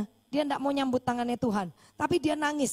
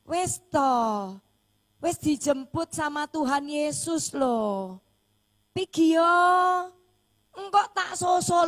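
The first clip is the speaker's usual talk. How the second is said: a wife's loud, tearful farewell, higher; 3 semitones higher, 3 dB louder, slower than usual. Retold or imitated. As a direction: call him on, slowly, close to tears. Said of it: "dia bilang gitu".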